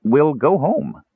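slow kender resignation; resigned. A narrator's reading. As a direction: give up with a drawn-out shrug in the voice. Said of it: "He sighed, then shrugged".

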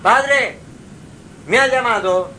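a hint of a boy waking his father; voicing young Samuel. A narrator's reading. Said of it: "y dice a su padre físico". (el niño Samuel, un poco más agudo)

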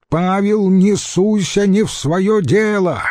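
high-pitched angry rebuke; indignant yelling. A narrator's reading. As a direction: warn him off in a high cry. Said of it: "завопил Марцел-старший". (сердитый вопль)

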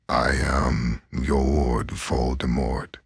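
slow, lightly voiced Voldemort with an odd timbre; a half-hearted dark lord impression. Vlogger trying a villain voice, slow and mildly sinister. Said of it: "this is already terrible".

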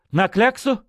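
quick high question, voice cracking on кляксу; snatch at the words "На кляксу?" in alarm; Zhuravlev's voice breaking on "кляксу" as he asks back. Acted. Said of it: "высоким рвущимся голосом".

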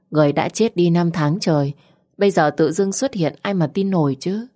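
plain reading voice

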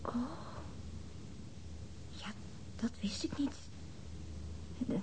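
barely breathed, taken aback; a stunned hush as the news sinks in; shocked whisper. Acted. Woman whispering after hearing of the murdered girl, stunned.

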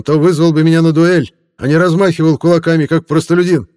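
high, fawning tipsy reporter voice; a drunk hack laying on the flattery, pitched high. Acted. Reporter gloats to crowd.

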